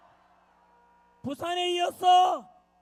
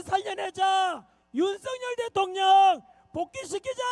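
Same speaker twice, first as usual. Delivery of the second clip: hoarse voice. Real, not acted. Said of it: "목이 쉬어서".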